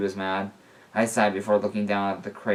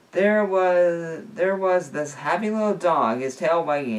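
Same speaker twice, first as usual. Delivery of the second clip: excited; 8 semitones higher, 4 dB louder than usual. A narrator's reading. Narrator voicing delight at dog.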